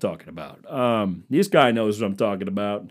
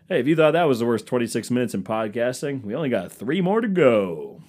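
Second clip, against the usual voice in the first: mock host pitch; 4 dB louder than usual. Mock podcast host sign-off.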